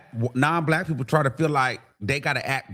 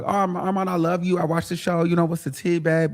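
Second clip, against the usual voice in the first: imitating a fan; 2 semitones higher than usual. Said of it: "you like".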